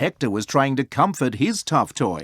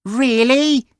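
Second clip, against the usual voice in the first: challenging really; 11 semitones higher, 4 dB louder than usual. A narrator's reading. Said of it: "said Ellie".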